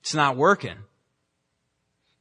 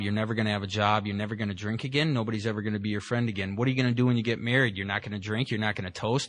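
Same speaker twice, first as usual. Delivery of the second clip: inner critic voice; 4 semitones lower, faster than usual. Retold or imitated. The inner voice berating the newly sober speaker, low and fast. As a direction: rattle it off like the voice in your head tearing you down. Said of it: "The voice, the thing that tells you".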